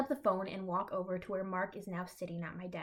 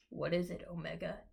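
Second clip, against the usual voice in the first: raspy. Acted. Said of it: "he rasps".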